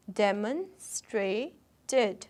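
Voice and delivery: "demonstrated" drawn out very slowly, dem-on-strat-ed; slow syllables. Shown as a demonstration. Teacher sounding out "demonstrated" for students. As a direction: break "demonstrated" into four slow beats. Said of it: "four syllables in this word".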